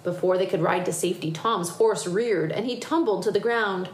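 lively picture-book reading; story narration. A narrator's reading. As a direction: tell it to children with building excitement. Reads picture book aloud.

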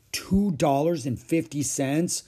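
put-on taken-aback child querying a big sum; dismayed echo. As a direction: repeat the price in disbelief. Child echoes price in dismay.

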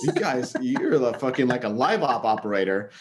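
roomy gym echo; talking in an echoey gym. Real, not acted. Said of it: "who's fucking recording from the gym".

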